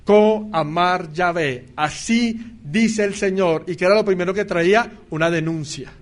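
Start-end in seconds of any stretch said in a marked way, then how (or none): 0.0-3.6 slow, weighty thus-says-the-Lord; drawn-out prophetic announcement, lightly voiced; solemn prophet proclamation. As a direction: proclaim it slowly like a true prophet. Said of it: "cuando el profeta decía".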